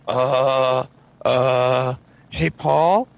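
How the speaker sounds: acting out uneasy stalling; nervous calling out. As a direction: hesitantly call a friend while spooked. Nervously calling a friend in story.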